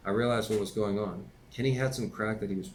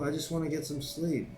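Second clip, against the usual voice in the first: yelling; 7 semitones higher than usual. Acted. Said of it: "I yelled".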